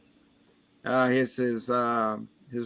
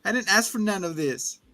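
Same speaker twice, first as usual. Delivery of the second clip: much higher, whiny overwrought voice; melodramatic son; 5 semitones higher than usual. Retold or imitated. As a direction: play it like a telenovela tantrum. Son's melodramatic outburst.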